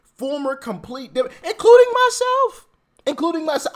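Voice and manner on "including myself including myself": emphatic self-inclusion. Real, not acted. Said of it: "self emphasis".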